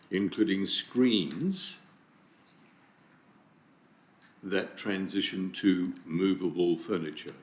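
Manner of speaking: measured dictation with long pauses; deliberate, spaced-out dictation; dictating. Real, not acted. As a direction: read it out phrase by phrase for someone typing. Dictating motion wording to be typed.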